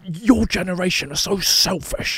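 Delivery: high, drawn-out disgusted scolding; mock angry flyer. Angry man scolding a younger passenger, mock indignation. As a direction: imitate a grumpy passenger, slowly condemning. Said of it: "angry flyers".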